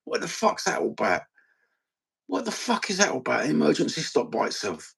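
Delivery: high-pitched, baffled complaint; indignant griping; exasperated. Real, not acted. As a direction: protest in disbelief, pitch jumping up. Griping about car's emergency stops.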